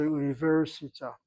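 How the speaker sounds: "universita" in Sephardic Hebrew, leaning on "ver"; Sephardic pronunciation. Shown as a demonstration. Teacher showing good Sephardic Hebrew, Sephardic accent. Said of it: "if a Sephardic Jew speaks a good Hebrew".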